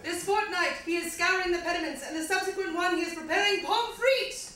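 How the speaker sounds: slightly bad British recital; quasi British accent. Comic recites a song to audience, slightly bad British accent. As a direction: read it as poetry in mock-British English. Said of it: "slightly bad British accent".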